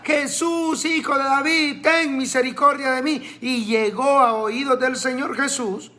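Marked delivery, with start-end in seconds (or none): 0.0-3.4 high begging call to Jesus; insistent plea. Retold or imitated. Blind man insisting to Jesus, high begging call. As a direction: plead again, higher and insistent. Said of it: "seguía insistiendo y le decía".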